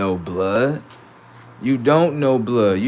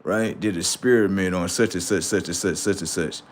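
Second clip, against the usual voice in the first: mock quoting; 5 semitones lower, 6 dB quieter than usual. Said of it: "that motherfucker said".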